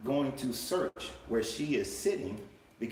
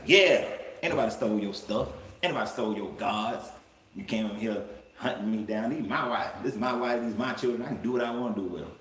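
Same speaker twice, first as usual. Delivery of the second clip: mock-indignant street-talk retort, first words louder; 4 dB louder, faster than usual. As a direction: play Jacob fed up and defensive, loud at the start. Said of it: "So now he's indignant".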